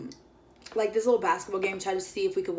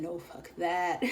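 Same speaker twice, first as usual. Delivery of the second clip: laughing refusal; 3 semitones lower, 8 dB quieter, slower than usual. Retold or imitated. Friend refusing roller coaster.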